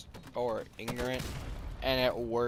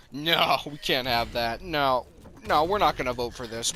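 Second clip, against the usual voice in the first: mock refusal; 5 dB louder than usual. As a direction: bark a mock no. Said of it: "Chuck Schumer ... is like".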